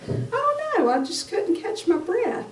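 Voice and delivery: high, thin voice, short of air; imitating a breathless son, high. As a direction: sound like you can't catch your breath.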